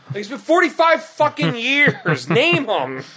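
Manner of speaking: high-pitched comic exasperation; mock-indignant demand; exasperated. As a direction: protest in disbelief, voice climbing high. Mock outrage at Walton's evasion.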